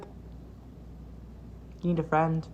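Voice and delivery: slow, breathy whisper. Pretend. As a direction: whisper it slowly and softly. Teasing a sad fan.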